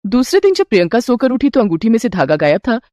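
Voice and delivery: ordinary delivery, nothing marked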